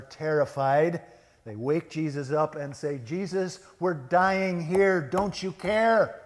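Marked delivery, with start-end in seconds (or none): 3.0-6.2 high, loud cry of acted panic; hysterical plea. Disciples waking Jesus in the storm, hysterical. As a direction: plead loudly, drawing out each word in mock hysteria. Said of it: "A little hysterical, don't you think?".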